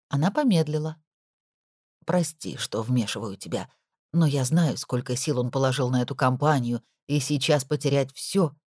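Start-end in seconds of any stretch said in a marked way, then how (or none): 2.1-8.5 put-on lightly lower, concerned older woman; worried housekeeper. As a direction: share the worry gently. Nora apologises.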